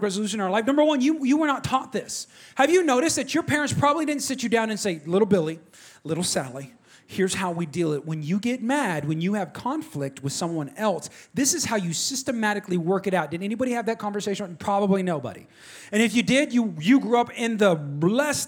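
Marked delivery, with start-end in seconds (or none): 5.0-13.3 low, measured explaining voice; gently sit the kids down and explain; mock-patient parental talk, pitched down; calm parent. Parent voiced calmly instructing children.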